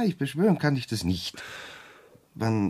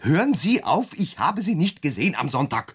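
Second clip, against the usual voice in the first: raised, indignant denial; a heated, louder denial; loud protest; 3 semitones higher than usual. Acted. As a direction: shout him down in protest. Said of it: "Sie können auch leiser lügen".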